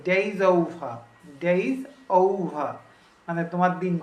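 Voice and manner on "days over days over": fast linked. Shown as a demonstration. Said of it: "খুব দ্রুত বলেছে".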